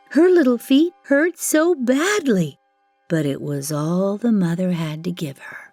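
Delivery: usual speaking voice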